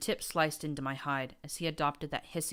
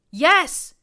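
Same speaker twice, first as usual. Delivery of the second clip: much higher, very loud shriek; desperate scream; 13 semitones higher, 17 dB louder than usual. A narrator's reading. Terrified mare screaming yes at her tormentor. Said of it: "she screamed in desperation".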